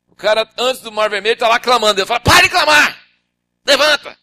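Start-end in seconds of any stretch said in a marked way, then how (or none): 2.2-4.2 voice of God. Acted. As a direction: boom it as God asking why. God commanding.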